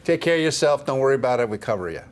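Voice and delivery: mock Philly boss accent; brisk Philly reassurance, lightly put on. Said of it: "That's my Philly accent".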